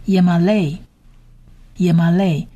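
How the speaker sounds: "yemale" evenly as ye-ma-lei; Hebrew pronunciation model. Shown as a demonstration. Teacher introduces the last word to learners, careful pronunciation model. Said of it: "最后一个字是".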